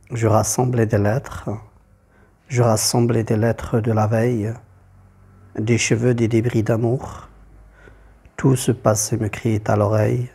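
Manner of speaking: measured verse recitation, pausing between lines; poem reading. Acted. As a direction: read the poem line by line, evenly. Reads the poem aloud.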